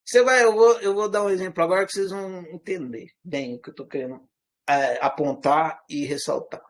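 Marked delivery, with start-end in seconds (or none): none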